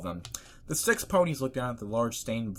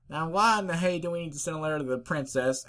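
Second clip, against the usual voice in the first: higher, country-flavoured pony voice; puzzled Applejack; 8 semitones higher, 4 dB louder than usual. Acted. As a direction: question it with folksy disbelief.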